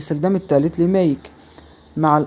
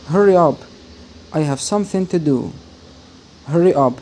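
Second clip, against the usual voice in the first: urgent hurry. Acted. Teacher acting out an example, calling out urgently. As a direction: push someone to hurry. Urging someone in example sentence.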